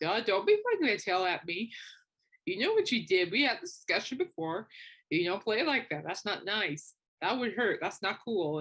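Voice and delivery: mild mock telling-off; parent-to-toddler reprimand, lightly acted; scolding like a child. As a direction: firmly chide a naughty little dog. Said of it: "It's like talking to a child".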